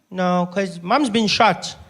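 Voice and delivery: slow, lightly voiced polite child; unbothered little brother. Nine-year-old reports mom's been shot, slow and unbothered. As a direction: drag it out, unbothered, as a small boy. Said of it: "totally unbothered".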